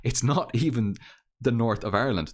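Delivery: firm stress on "not even the north"; emphatic correction, leaning on "not even"; stressing the point. Real, not acted. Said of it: "I want to stress this point".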